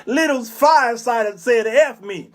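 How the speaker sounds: cackling laugh then boasting; mock laughing mother. Mother laughing to her friends about the cursing boy, mock cackle. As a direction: laugh it off to the girls. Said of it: "She turned to her friends and said".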